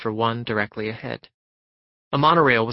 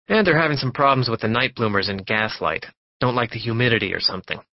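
a pushy stranger who won't stop talking. Acted. Narrator voices chatty passenger.

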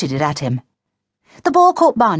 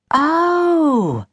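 high, long falling oh; drawn-out dismayed realisation; sudden realisation; 11 semitones higher than usual. A narrator's reading. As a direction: let it dawn on you. Boy suddenly remembers the letter.

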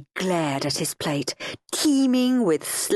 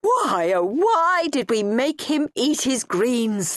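mock sob; 5 semitones higher, slower than usual. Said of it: "they would sob".

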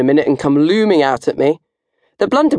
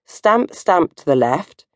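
dance call; 3 semitones higher, slower than usual. Shown as a demonstration. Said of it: "the Viking disco inferno dance goes".

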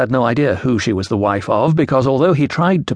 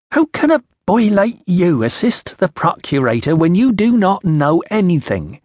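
put-on high, accented challenge, slowing at the end; scornful Iceni accent; 7 semitones higher than usual. A narrator's reading. Woman challenges the boy assisting the procurator, scornful Iceni accent. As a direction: scold him in a tribal British accent. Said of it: "trouble following your accent".

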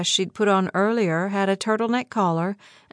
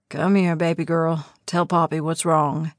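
gentle father voice; 4 semitones lower than usual. Acted. Eli soothing crying baby.

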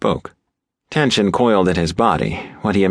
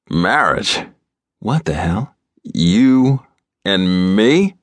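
stunned, rising disbelief; can't believe what he hears; shocked disbelief; much slower than usual. A narrator's reading. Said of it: "on sheer shock alone".

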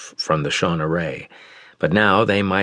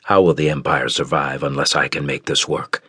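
lower, steady Mage Imperator; confident Jara; 5 semitones lower than usual. Acted. Ruler reassuring his people, low and steady. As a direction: sound sure though he isn't. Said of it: "exuding a confident determination".

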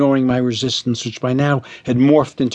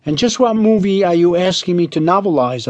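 higher, piping question; piped; 5 semitones higher than usual. Acted. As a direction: pipe it up, choking on the word. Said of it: "I piped".

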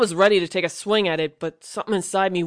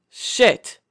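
sudden alarmed exclamation; shocked curse; 4 semitones higher, 3 dB louder than usual. Acted. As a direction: blurt it out in shock. Alien light burns in his chest.

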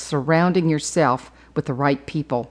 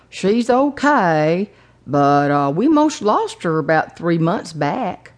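put-on drawn-out, hesitant older Texan accent; lightly voiced old Texan, slow to begin; older gentleman's accent; slower than usual. Driver explains about his mama, light halting Texan accent. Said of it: "older gentleman with a unique accent".

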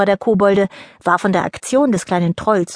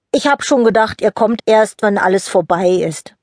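lightly voiced troll boy; 3 dB louder than usual. Jockel greets the late fairies.

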